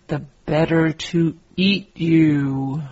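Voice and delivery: loud, menacing wolf line; big wolf threat; wolf's loud threat. Acted. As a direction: roar the threat before pouncing. Wolf springs on the girl.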